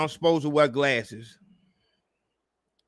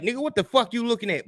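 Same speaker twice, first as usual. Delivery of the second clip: imitated tough guy; 5 semitones higher, faster than usual. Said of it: "a nigga could be like that".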